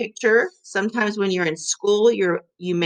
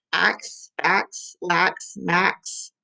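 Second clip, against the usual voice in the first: each word said slowly and evenly; rhyming words; much slower than usual. Shown as a demonstration. Teacher listing rhymes for students, slow and even. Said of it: "Those are what? Rhyming words".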